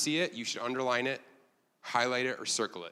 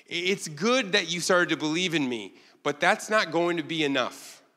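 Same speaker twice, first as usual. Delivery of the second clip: lightly voiced reassuring Jesus, higher; a hint of a kind Jesus, pitched up; paraphrasing Jesus; 4 semitones higher, 4 dB louder than usual. Preacher paraphrasing Jesus reassuring Nathanael, lightly voiced. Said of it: "He's saying".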